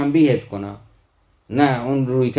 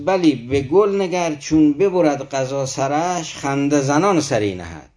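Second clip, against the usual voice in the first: slow, measured verse reading with drawn-out words; poem recitation; 2 semitones higher, slower than usual. Acted. Teacher quoting Rumi's verse to listeners, slow poem recitation. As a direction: recite it line by line, unhurried.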